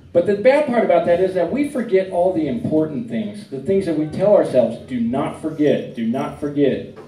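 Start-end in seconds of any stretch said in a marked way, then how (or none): 4.8-7.0 slow self-reminder. Retold or imitated. Mantra telling ourselves not forget.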